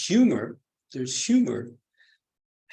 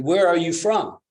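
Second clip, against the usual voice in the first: master's demand; 6 semitones higher, 8 dB louder than usual. Acted. Master demands monk's origin.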